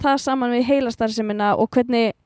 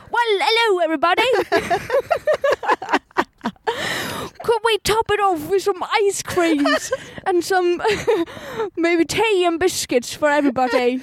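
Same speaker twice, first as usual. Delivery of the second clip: much higher, fast hammed-up British hostess; posh British Helga; 7 semitones higher than usual. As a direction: gush over tea and biscuits, very high and British. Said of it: "Mætir Helga".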